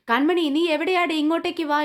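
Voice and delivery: a retold shout for the bride, only partly voiced; mock loud call. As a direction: call out for her across the hall in a mild mock yell. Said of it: "ഉറക്കെ വിളിച്ചു പറയുന്നുണ്ട്".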